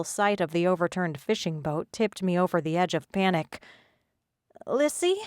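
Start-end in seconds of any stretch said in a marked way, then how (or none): 4.7-5.2 calling out. Acted. Calling out on dark beach.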